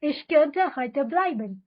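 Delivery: very slow, every syllable laid out for repeating; slow drill reading. Shown as a demonstration. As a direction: read it slowly so learners can echo you. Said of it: "तो चलो एक साथ बोलते हैं". (बहुत धीमे, साफ़ साफ़ दोहराने के लिए)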